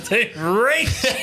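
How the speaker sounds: slow, high, laughing through it. Real, not acted. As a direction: echo it while cracking up. Laughing echo of hormones line.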